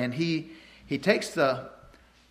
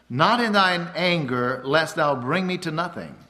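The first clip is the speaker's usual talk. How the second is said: scripture reading. Acted. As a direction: proclaim the verse like a prayer. Preacher reads scripture aloud.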